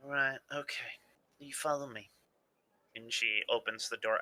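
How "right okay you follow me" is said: put-on Southern accent. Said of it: "slipping slowly into Southern".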